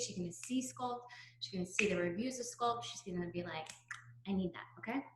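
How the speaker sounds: breathless, running out of air; talking while short of breath. Real, not acted. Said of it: "I'm out of breath".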